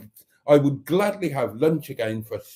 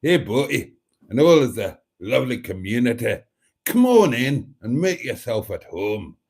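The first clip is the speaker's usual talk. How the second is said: put-on regional accent; greeting read in a mimicked local accent; Carol C's accent; 3 semitones lower than usual. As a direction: imitate a viewer's regional accent. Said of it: "shall I do it in her accent?".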